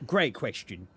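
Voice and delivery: loud, goofy mock approval; hammed-up funny voice; silly put-on voice. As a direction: answer in a comic character voice. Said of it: "talking like this".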